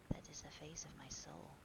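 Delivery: soft, breathy near-whisper; hushed, subdued statement; grave hushed reply. Acted. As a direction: answer gravely under the breath. Dorian's grave reply about portrait.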